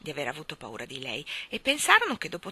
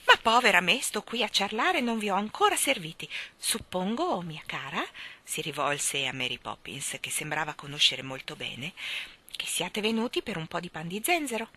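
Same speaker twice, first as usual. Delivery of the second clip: put-on fluster like an old hostess; fussing old woman. Old shopkeeper fusses over serving her guests. Voices old Mrs Corey.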